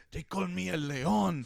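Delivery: mock-grand self-introduction; boastful tough guy. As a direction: announce yourself slowly with swagger. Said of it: "You go up to mine, he's like".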